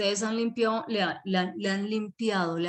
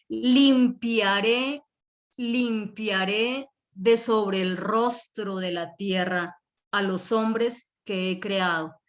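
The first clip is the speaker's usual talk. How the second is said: lento y fuerte, solemne; voz de Dios; slower than usual. Retold or imitated. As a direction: proclama despacio como Dios que promete. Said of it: "Y dijo Yahweh". (Dios proclamando despacio, solemne y sonoro)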